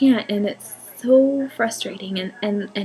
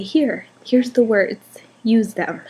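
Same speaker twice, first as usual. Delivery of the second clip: louder, slow, insistent offering; pleading offer; 2 semitones higher, 5 dB louder, slower than usual. Pretend. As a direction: hand the words over, slowly and firmly. Wishing to hand daughter words.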